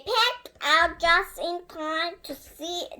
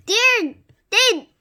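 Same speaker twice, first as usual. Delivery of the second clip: loud, higher gruff shout; gruff cry; 6 semitones higher, 9 dB louder than usual. Acted. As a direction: call out like a rough ogre. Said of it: "cried the gruff voice".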